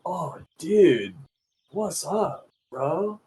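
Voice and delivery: Californian dude. Retold or imitated. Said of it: "California would probably be".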